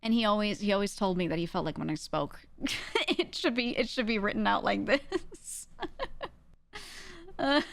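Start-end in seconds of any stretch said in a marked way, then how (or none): 2.6-7.7 laughing. Real, not acted. Laughs retelling father's remark.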